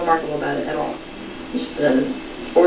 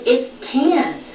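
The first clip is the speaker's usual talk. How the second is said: high, sing-song mockery; mock him in a high voice; teasing the husband, high mocking voice; mocking tease; 8 semitones higher than usual. Teasing Randy, mocking his words.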